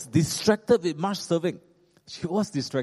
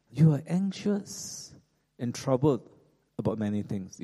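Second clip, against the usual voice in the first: very gentle voice. Shown as a demonstration. The Lord gently addressing troubled Martha, very gentle voice. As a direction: ease each phrase out gently. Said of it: "saying in a very gentle voice".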